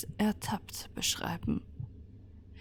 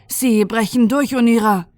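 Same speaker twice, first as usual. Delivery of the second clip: urgent warning; 2 semitones higher, 8 dB louder than usual. Acted. Tall shepherdess warns Ynira the door is breaking, loud urgent call. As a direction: warn your leader the door is giving.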